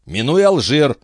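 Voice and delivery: a high-voiced captain grilling his friend; excitable old sea captain. A narrator's reading. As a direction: press him like a fussy old skipper. Antifer directs on the map.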